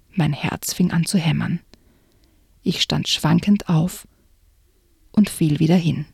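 hushed, suspenseful reading aloud; story narration. A narrator's reading. Narrator reading a spooky book excerpt to the listener, suspenseful. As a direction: read it like a creepy tale, drawing them in.

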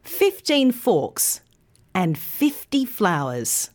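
put-on slow "fifteen" with teen stressed, FIFty on first; contrast stress. Shown as a demonstration. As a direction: model it clearly. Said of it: "put it all together".

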